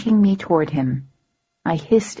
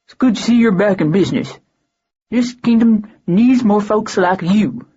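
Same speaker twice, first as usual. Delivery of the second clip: almost shyly; 4 semitones higher, 4 dB louder than usual. A narrator's reading. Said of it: "almost shyly".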